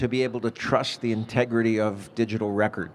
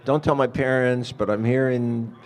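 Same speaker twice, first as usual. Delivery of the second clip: drawn-out, louder mock plea to grandma; lightly acted grandson begging for help; pleading grandson; 6 dB louder, slower than usual. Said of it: "she gets a call and it's grandson".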